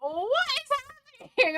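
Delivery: very high-pitched mock panic; retold freaking out. Dad on the phone hearing screams, mock freaking out. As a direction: imitate a bewildered, freaked-out shriek. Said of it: "my dad was freaking out".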